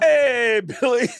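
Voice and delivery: mock douchey hey, loud and high; douchey greeting. Fan greeting a singer backstage, douchey. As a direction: imitate an overeager douche calling out. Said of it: "delivery that you give that makes me sound so douchey".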